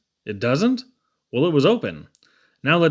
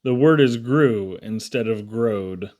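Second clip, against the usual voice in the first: stern teacher; 4 semitones lower, slower than usual. Acted. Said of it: "Teacher said".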